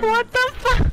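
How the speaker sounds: loud, high yell of disbelief; shocked shout. Real, not acted. Friend reacting to a cheap death in the match, loud high shout. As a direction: blurt it out as you get killed.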